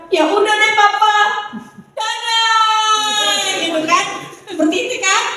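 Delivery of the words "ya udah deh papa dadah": higher, lighter wife waving goodbye; a lightly voiced wife saying bye; wife's farewell. Wife Marlina bids husband goodbye, higher pitched. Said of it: "Bu Marlina bilang".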